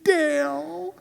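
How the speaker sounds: put-on high, soft child voice, rising; a small child pointing out his brother; worried little boy. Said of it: "And he said".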